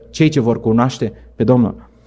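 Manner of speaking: slow, weighty repeat of Cei ce vor cunoaște pe Domnul; slow emphatic repeat. Shown as a demonstration. Preacher repeating Daniel's words to the congregation, slow and weighty. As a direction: let it sink in slowly.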